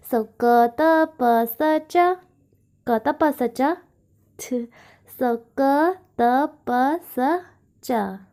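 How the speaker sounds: क त प स च said in a row; tense consonant drill. Shown as a demonstration. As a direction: rattle off the tense sounds. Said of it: "इसे हम च प्रोनाउंस करेंगे". (क, त, प, स, च को लगातार बोलें)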